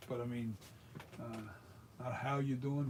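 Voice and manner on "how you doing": casual Philly greeting; lightly demonstrated Philly sound; Philly accent. Shown as a demonstration. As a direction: say it with a Philadelphia street accent. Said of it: "that's a Philly sound".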